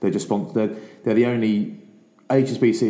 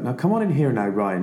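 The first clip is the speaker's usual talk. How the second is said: Irish coach impression; 5 semitones higher than usual. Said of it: "my accent's terrible".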